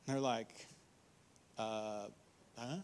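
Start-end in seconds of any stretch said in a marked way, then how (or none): 1.6-2.8 confused disciples. Retold or imitated.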